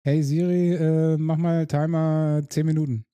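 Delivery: voice command. Real, not acted. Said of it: "voice command to phone".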